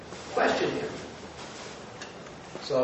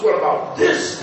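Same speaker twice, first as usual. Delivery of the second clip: higher, louder, laughing through the quote; laughing retell; 5 semitones higher, 6 dB louder than usual. Retold or imitated. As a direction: repeat the challenge while cracking up. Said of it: "And Tom goes".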